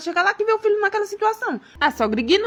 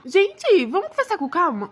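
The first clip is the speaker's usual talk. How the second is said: higher-pitched, urgent peacemaking; urgent appeal; 5 semitones higher, slower than usual. Acted. Husband breaks into family row, urgently appealing. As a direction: appeal for calm in a raised pitch.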